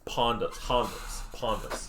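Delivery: "Pondas" with an open ah, like "Hondas"; practised pronunciation. Shown as a demonstration. Co-caster practises the corrected team name, "Pondas" with ah. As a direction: try out "Pondas", each one separate. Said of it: "it's pronounced Pondas".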